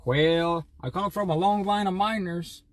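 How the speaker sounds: lightly put-on old West miner twang; old West miner accent. Streamer playing a miner for chat, old West accent. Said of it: "Like an old West miner accent".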